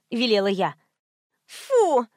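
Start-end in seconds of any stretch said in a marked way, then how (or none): 1.5-2.1 whiny. A narrator's reading. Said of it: "заныла Карц".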